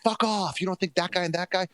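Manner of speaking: brushing off an insulting question; hammed-up irritated Trump; mock angry retort. Voicing Trump snapping at reporter.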